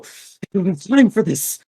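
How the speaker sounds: frustrated fighter. Acted. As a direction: push the goon aside with scorn. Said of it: "you hear Woodchuck go".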